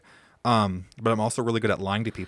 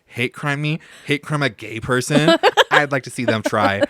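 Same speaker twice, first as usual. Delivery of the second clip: laughing bravado; 4 semitones higher, 7 dB louder than usual. Retold or imitated. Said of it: "And I'm like".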